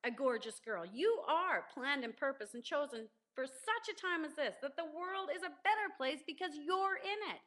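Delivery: mirror affirmation. Shown as a demonstration. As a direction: speak it to yourself in the mirror with conviction. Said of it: "stand up in front of the mirror and say".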